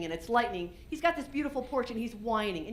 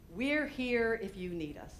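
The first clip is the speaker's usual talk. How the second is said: realization; slower than usual. Retold or imitated. Echoing the neighbor's words as a realization. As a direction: let it dawn on you. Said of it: "I'm like".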